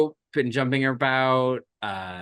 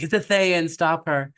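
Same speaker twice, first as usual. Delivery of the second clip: mock alarm; 7 semitones higher, 5 dB louder than usual. Crowd spots the villain overhead.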